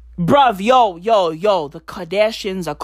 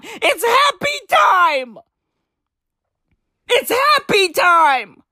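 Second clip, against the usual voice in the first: slow high sing-song; 9 semitones higher than usual. Acted. Drawn-out celebratory catchphrase.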